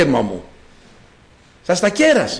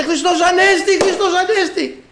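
high, drawn-out acted cry of joy; joyful calling out; 10 semitones higher than usual. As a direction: play an elated grandmother proclaiming the news. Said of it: "Φώναζε". (χαρούμενη, ψηλή κραυγή γιαγιάς)

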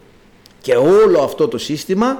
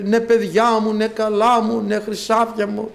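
mock-indulgent coddling, slowing down; lightly voiced lax god pampering his children; a hint of a doting, lazy deity; easygoing little god; 6 semitones higher, slower than usual. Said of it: "είναι χαλαρός".

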